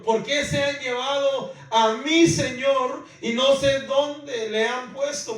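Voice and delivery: loud, high, anguished plea; desperate cry. Acted. Preacher voicing María's desperate cry at the tomb, loud and high. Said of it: "mire cómo le llamó".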